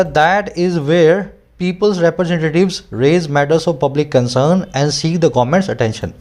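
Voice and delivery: slow, careful dictation-style reading; slow reading aloud. Shown as a demonstration. Teacher reading the editorial line to students, slow and deliberate. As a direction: read each phrase slowly for students to follow.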